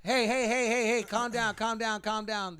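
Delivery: loud, high, repeated calming shouts; urgent shouting. Retold or imitated. Bystander breaking up two arguing dads, urgent shouting. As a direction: shout over them to break it up. Bystander stepping in to stop quarrel.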